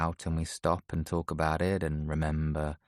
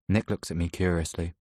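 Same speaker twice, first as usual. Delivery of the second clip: plain reading voice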